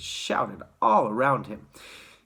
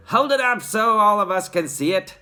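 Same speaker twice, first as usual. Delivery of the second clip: calling out; 8 semitones higher, 6 dB louder than usual. A narrator's reading. Crowd member calling.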